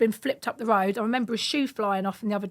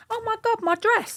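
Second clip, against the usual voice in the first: mock girly shriek; 12 semitones higher than usual. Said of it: "All she said was".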